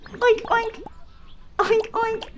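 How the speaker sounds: high-pitched piggy oinking; squeaky, playful double oinks. Pretend. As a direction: oink like a little pig. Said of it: "I'm a pig".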